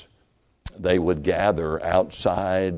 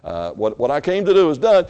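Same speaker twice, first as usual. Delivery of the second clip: imagined resigned meaning; 2 semitones higher, 6 dB louder than usual. Retold or imitated. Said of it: "he didn't mean".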